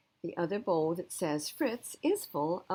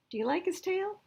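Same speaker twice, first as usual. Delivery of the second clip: much higher, picky shelter visitor; high mock shopper voice; 13 semitones higher than usual. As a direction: sniff at the dog like a fussy customer. People judging dogs at shelter.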